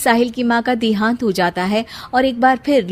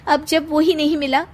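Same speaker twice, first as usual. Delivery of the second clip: put-on sad young bride; 5 semitones higher than usual. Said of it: "Sheena कमरे में हाथ में गुड़िया लिए बोलती है".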